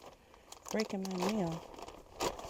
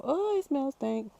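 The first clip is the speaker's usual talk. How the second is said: disgusted; 6 semitones higher, slower than usual. Real, not acted. Reacting to compost smell.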